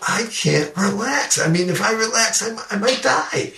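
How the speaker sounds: reliving the fear of dying, pitch up high; retold panic. To the medics in the helicopter, a mock frightened plea.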